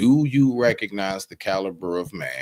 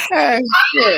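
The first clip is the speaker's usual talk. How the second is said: higher, louder burst of laughter; 12 semitones higher, 6 dB louder than usual. Real, not acted. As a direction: crack up and yell through it. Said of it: "I'm trying".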